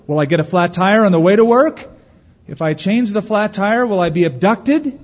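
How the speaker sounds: quick, fretting worrier's voice; anxious worrier. Pretend. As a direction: rattle off the fears of a nervous worrier. Voicing a worrier's fears.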